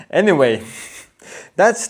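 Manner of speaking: laughing through words. Real, not acted. Laughs at own joke.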